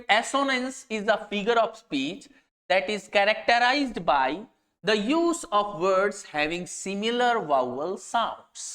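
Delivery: slow, deliberate dictation pace; slow definition reading. Shown as a demonstration. Teacher reads a definition so students can copy it, slow dictation. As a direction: read it out word by word for students to note down.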